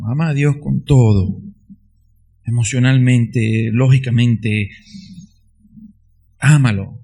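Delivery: rising fervent preaching; fervent exhortation. Acted. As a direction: urge them to love God fully.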